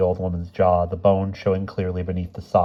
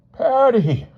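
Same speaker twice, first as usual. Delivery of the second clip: high, loud warning cry; trying to stop her; 7 dB louder than usual. A narrator's reading. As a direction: call out sharply to stop your wife. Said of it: "Mister Smith tried to stop her".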